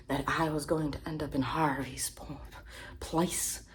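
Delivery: lightly put-on accent, smug and whispery; fake Johnny Depp impression. Comedian mocking a celebrity, smug fake accent.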